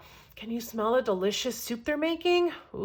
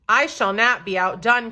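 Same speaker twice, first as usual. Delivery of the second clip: cried out; 3 semitones lower, 4 dB louder than usual. Acted. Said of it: "cried another".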